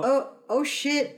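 mock dismay. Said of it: "gets this look on her face like".

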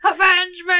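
high, loud dying cry; overacted death scene. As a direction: belt it like a dying hero. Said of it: "Willem Dafoe saying, "Avenge me".

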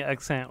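"accent" said like "ek-sent"; odd pronunciation. Real, not acted. Co-host boasting of accent work, "accent" as "ek-sent". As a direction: say "accent" with an eh at the start. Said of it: "you just pronounced it accent".

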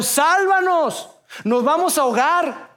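high, slow, desperate plea; panicked cry for help. Retold or imitated. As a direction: cry out as the boat sinks. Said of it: "le gritaron".

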